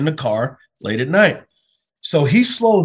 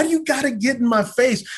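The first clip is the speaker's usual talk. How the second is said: real crack of hurt in a higher voice; voice breaking; 8 semitones higher than usual. Real, not acted. Pastor reliving the police stop, voice breaking. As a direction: let the hurt break through the question.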